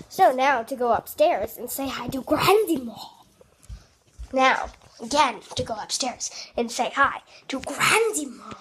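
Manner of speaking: badly faked British accent; put-on British accent. Kid vlogger announcing a trip upstairs to Grandma, mock British accent. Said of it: "That's my British accent".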